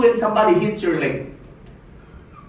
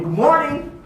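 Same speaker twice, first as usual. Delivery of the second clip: enthusiastic greeting; 6 semitones higher than usual. Shown as a demonstration. Speaker shows how to greet a stranger, enthusiastic. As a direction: greet them with real enthusiasm, voice lifted.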